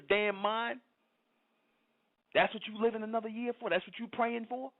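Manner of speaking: real indignant tirade, pitched high; indignant scolding. Real, not acted. Scolding churchgoers about their New Year prayers, indignant. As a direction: scold them with incredulous, high-pitched questions.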